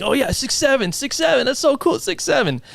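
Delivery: high-pitched overexcited catchphrase chanting; mock enthusiasm. Teacher parroting the kids' catchphrase until they quit, mock enthusiasm. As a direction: overdo the excitement to annoy.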